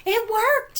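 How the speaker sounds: high loud triumphant shout. Acted. Highlighter shouting in triumph. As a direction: cheer the success. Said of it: "shouted Highlighter".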